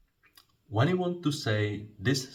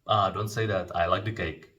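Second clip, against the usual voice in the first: reassuring. Shown as a demonstration. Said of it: "something like".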